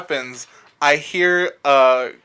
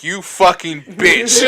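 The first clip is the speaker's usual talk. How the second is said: laughing mock insult; 3 semitones higher, 4 dB louder, slower than usual. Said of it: "and I was like".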